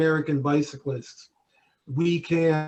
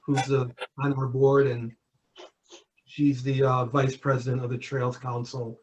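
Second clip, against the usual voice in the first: muffled voice, bad connection; muffled, as if through cloth; 2 semitones lower than usual. Real, not acted. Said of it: "Sorry, you're muffled again".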